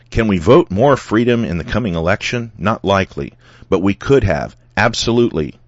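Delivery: reading out an all-caps post with mild punch; emphatic quoted post. Retold or imitated. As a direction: punch the key words as if capitalised. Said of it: "was in caps with exclamation points".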